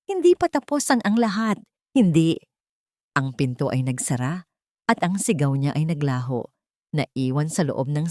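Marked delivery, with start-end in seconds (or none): 0.1-2.4 high, loud parting yell full of venom; venomous shout. A narrator's reading. Mateo being led out by police, shouting venom at Eloisa. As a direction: spit the threat as you're dragged away. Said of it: "sumigaw ito ... puno ng lason".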